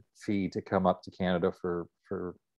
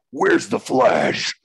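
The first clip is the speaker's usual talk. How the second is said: King Shark voice; 8 dB louder, much slower than usual. Acted. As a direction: drag it out like a nine-foot beast. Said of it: "the voice is".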